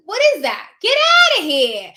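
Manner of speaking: high, loud laughing disbelief; incredulous laugh. Real, not acted. Notary scoffing at a realtor's vouching, laughing loudly. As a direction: laugh it off as absurd.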